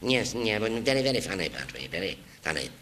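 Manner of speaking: a hint of a cold boss dismissing him; dry theatre owner. The owner firing the young actor, dry and unamused.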